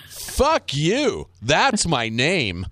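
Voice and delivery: high first hit, then slow put-down; hard-boss impression, drawn out; Alec Baldwin. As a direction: stamp down a challenger slowly. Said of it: "Fucking Alec Baldwin in that".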